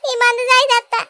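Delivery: mock tragic mother's lament; fake lament. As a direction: ham up the grief to guilt her son. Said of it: "ఏం acting".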